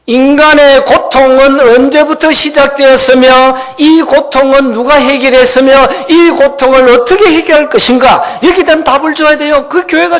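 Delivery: ringing proclamation, high and loud; full-force preaching. Real, not acted. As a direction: hammer out each question to the congregation.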